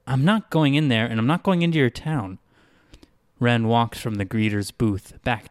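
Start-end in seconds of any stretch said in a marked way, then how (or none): 0.1-2.4 stubborn refusal. Acted. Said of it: "Wren shook her head and said".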